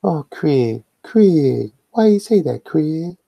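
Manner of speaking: high-pitched pop star voice; a famous singer. Pretend. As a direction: squeak it up high and fast. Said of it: names the singer.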